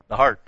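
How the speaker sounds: "The heart" punched loud on its own; emphatic stress. Shown as a demonstration. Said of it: "The heart is emphatic here".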